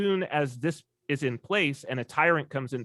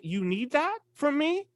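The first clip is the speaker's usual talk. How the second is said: gentle question; 12 semitones higher than usual. Retold or imitated. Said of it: "he's like".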